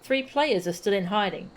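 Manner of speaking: lightly voiced chatty child with lively swoops in pitch; eager child. Yozan greeting a traveller before the carriage ride, eager child. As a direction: play an eager, curious youngster.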